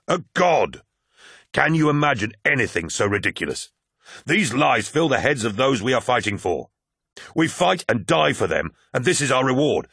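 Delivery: rousing speech. Acted. Aximand's rousing lodge speech.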